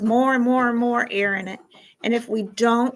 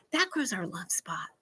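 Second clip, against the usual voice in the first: whisper; 5 semitones lower, 10 dB quieter than usual. Shown as a demonstration. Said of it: "repeated softly".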